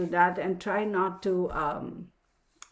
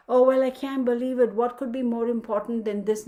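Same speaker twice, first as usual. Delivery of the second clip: higher, louder mock offended gasp; offended acquaintance; 4 semitones higher, 5 dB louder than usual. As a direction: play the huffy person, scandalised. Mocking the offended other person.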